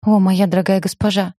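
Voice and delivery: ordinary delivery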